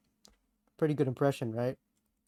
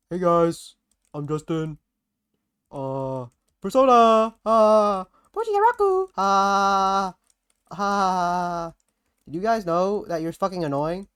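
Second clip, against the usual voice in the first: loud excited gamer shouting, higher; Justin impression; 3 semitones higher, 5 dB louder, slower than usual. Tony imitating Justin for the host, loud and high. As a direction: yell out game attacks like a hyped streamer. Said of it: "impression of Justin".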